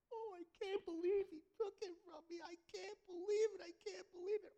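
high, loud mock lament of a bitter man; bitter wail. Mocking a bitter loser's wail.

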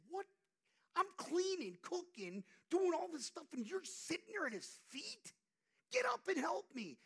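high, loud exasperated sister; angry complaint. Retold or imitated. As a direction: scold her sister for sitting. Voicing Martha's angry complaint.

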